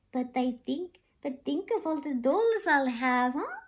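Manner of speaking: with a smile. Acted. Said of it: "said Sasha with a smile".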